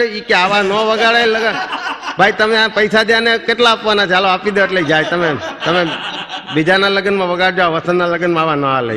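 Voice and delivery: mock scolding. Scolding the band loudly.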